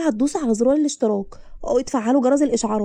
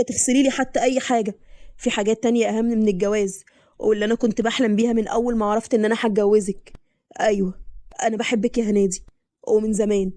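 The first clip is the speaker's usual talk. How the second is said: lightly voiced man confessing long-held love; husband's confession; 3 semitones lower than usual. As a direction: lower husband, heartfelt and wounded.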